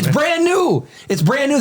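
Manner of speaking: high-pitched insistent outburst; squealed objection; indignant protest. Real, not acted. Mock protest about a shirt being old.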